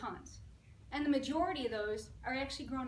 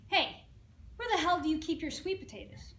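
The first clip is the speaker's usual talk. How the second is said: louder, fed-up customer asking yet again; exasperated demand; 4 semitones higher, 5 dB louder than usual. Acted. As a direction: demand it, out of patience. Third time asking, losing patience.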